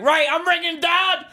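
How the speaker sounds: high, slow stern warning; threatening mum. Retold or imitated. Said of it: "she'd be like".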